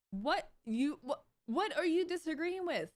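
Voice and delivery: high, baffled question; incredulous. Real, not acted. Incredulous rant at commenters.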